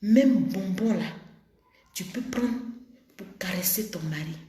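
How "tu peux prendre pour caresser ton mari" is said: whisper. Real, not acted. Intimate sex advice to women.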